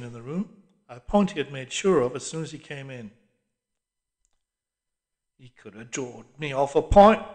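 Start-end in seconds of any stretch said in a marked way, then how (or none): 5.4-7.3 grumbling. A narrator's reading. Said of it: "grumbled the old man".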